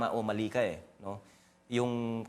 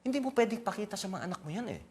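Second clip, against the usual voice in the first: emotional, voice breaking; holding back tears; after crying; 5 semitones higher than usual. Real, not acted. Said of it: "control my emotion".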